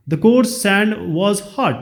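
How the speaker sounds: slow, careful reading of the quiz sentence; slow question reading. Shown as a demonstration. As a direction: read each word out slowly for the class. Reads question slowly. (धीरे-धीरे प्रश्न पढ़ना)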